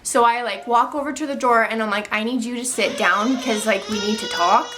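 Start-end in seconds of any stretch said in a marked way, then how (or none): 2.1-4.6 a tearful catch in the voice. Retold or imitated. Telling her partner the news, on the edge of tears. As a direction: say it close to crying.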